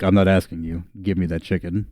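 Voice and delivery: low, restrained threat, softening at the end; menacing demand. Acted. Commander demands the chicken from its owner, low menace. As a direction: press the order quietly, with menace. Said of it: "his face becomes the JoJo menacing face".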